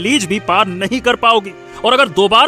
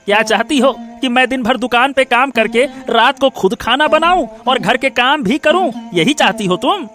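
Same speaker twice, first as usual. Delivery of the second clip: cross, accusing husband; irritated scolding. Acted. Husband to wife who wants to visit parents, scolding. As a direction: scold with rising indignation.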